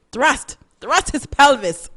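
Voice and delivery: slow, lightly Trinidadian "thrust, thrust"; a hint of Trinidadian dialect, drawn out; Trinidadian accent. Host slipping back into Trinidadian accent telling the carnival story. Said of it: "Why am I doing the accent again?".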